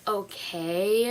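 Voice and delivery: questioning rude "okay" with rising end; mock a rude texter's reply. Texter replying with a question mark, rude tone. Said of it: "such a rude tone".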